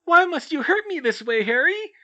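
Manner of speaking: very high, loud goofy falsetto; silly falsetto. Acted. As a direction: squeak it out like a cheerful puppet. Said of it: "spoke with a silly falsetto voice".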